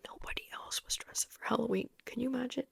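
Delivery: hushed, embarrassed whisper. Real, not acted. Telling viewers about the lone costume, whispered. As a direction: breathe it like a confession.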